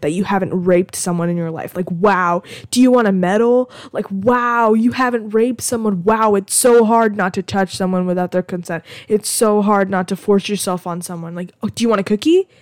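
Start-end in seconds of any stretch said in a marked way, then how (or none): 1.9-3.7 sarcastic praise. Acted. Mock praise for bare minimum. 4.1-12.5 sarcastic praise. Acted. Mock praise for bare minimum.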